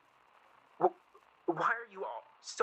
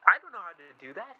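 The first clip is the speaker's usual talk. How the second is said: louder, pressing back; heated exchange; 10 dB louder, faster than usual. Acted. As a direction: raise the voice in frustration. Heated exchange about calling mother.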